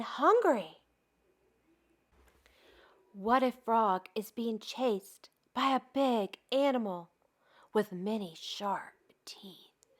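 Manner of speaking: put-on gentle storybook reading for children; expressive read-aloud for kids; story narration. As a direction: read it like a bedtime picture book. Reads picture book aloud.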